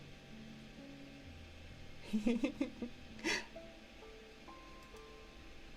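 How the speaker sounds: high, soft breathy giggle; playful shadowy giggle. Pretend. Streamer playing little shadow, soft high giggle. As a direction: let a long, hushed high giggle trickle out.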